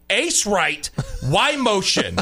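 crisp huddle play call, lightly voiced; quarterback calling cadence. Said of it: "Call the play like a man".

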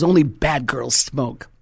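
slow, measured mock pronouncement; grandpa's stern verdict. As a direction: lay it down slowly as grandpa. Grandpa's verdict, later recalled.

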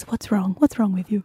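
not-great imitation of a Qatari accent; rough attempt at a Qatari accent; put-on Qatari accent. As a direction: imitate a concerned Qatari woman, accent and all. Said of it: "that was what their accents was".

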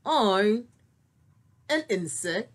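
small puppet bug voice; ladybug voice. Pretend. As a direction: answer as a little ladybug. Puppet ladybug answers question.

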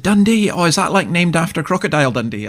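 high-pitched imitation of a curious questioner; mock naive curiosity. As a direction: mimic a wide-eyed question, pitched well up. Mimics someone's naive question about Dundee.

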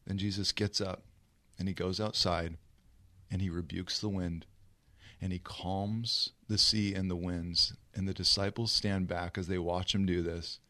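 low, soft narration; hushed storytelling. A narrator's reading. Preacher telling how the sea was calmed, hushed. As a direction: tell it quietly, as the storm goes still.

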